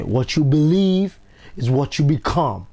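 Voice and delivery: slow, deliberate motto for the crowd to echo; slow creed to repeat. Shown as a demonstration. Coach giving the crowd a motto to repeat, slow and deliberate. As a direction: lay it out slowly so they can say it back. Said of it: "I want you to say".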